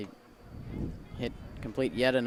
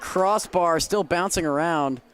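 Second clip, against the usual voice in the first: higher, louder soccer call; excited play-by-play; 6 semitones higher, 7 dB louder than usual. Real, not acted. Announcer calling a header off the crossbar, excited. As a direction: call the near miss with rising excitement. Live call of near goal.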